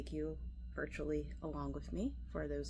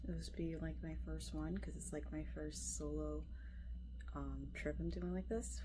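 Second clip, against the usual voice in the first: half asleep; 4 dB quieter than usual. Real, not acted. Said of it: "Sorry, I'm, like, half asleep".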